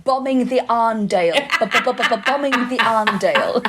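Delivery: mock Mancunian voice exercise; Mancunian warm-up. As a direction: stutter the b's like a vocal drill in Mancunian. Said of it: "Doing vocal warm-ups".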